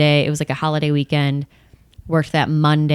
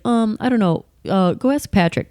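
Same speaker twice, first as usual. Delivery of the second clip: Tim's voice; 5 semitones higher than usual. Retold or imitated. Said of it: "kinda talks like this".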